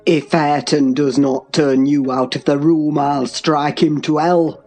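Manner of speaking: low, menacing male voice; deep, contained fury; thundering threat. A narrator's reading. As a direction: threaten darkly without shouting. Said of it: "thundered Heathcliff".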